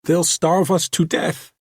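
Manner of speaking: high, loud, panicked woman; panicked scream. A narrator's reading. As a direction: scream it in fear. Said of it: "Don't scream so".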